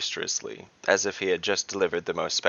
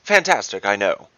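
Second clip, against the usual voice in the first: exclaiming; 7 dB louder than usual. Acted. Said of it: "Shibu exclaimed".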